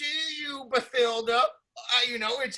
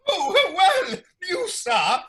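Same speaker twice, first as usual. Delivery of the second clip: indignant; 4 semitones higher, 3 dB louder, slower than usual. Acted. Indignant British host.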